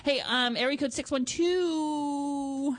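slow, smooth come-on voice; seductive radio voice. Pretend. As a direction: slowly lay on the bedroom charm. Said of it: "Does this voice turn you on".

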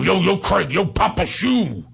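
mock buddy calling for a chat; Steiny. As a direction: raise the pitch a bit, imitating. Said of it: "he used to go".

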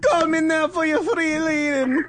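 psychic hotline voice through laughter; laughing ad read. Pretend. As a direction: laugh while doing the ad line.

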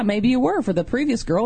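ordinary talk

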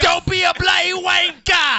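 high, drawn-out English shout; English accent. Shown as a demonstration. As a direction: scold in a hammed-up English accent. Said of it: "just like in an English accent".

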